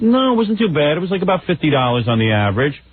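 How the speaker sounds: high, light wife voice; imitating wife. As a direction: mimic the wife brushing it off. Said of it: "she goes".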